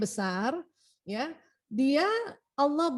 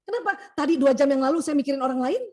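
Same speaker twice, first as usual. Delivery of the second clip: mock angry husband; 6 dB louder than usual. Husband angry on reading wife's mind.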